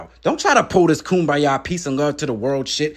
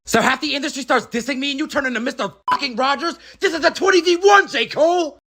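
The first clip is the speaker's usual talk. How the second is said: a hint of a higher, cocky rapper voice building to anger; lightly voiced rapper; 6 semitones higher than usual. Plays a rival rapper throughout.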